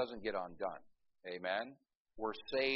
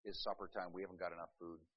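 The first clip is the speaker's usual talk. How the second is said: grumbling disciples; 6 semitones lower, 14 dB quieter, faster than usual. Retold or imitated. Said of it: "said to Jesus".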